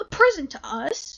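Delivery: loud, drawn-out, offended, affronted, indignant cry. Reading the fox's reply to an offered gift in a fable, indignant and offended. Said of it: "cried the Fox, with indignation, and appearing much offended".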